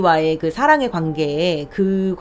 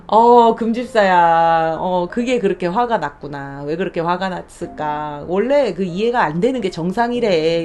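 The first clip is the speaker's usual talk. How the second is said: soothing herself; 2 semitones lower than usual. Retold or imitated. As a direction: soothe yourself like a kind friend. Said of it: "자꾸 저를 다독여주고 받아주고". (자신을 다독이는 부드러운 목소리)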